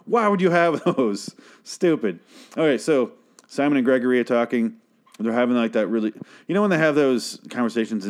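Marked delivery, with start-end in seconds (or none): 0.0-2.2 mock outburst, much higher; retold fuming. Fan retelling his reaction to the show, mock fuming outburst. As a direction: replay your own angry "No!" half-hammed. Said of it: "I was angry. Just fuming".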